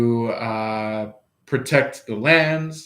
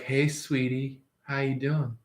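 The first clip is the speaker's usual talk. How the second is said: softer, tender hello; sweet greeting; 7 dB quieter than usual. Pretend. Greeting your person at the gateway, soft and tender. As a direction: coo it gently to a lover.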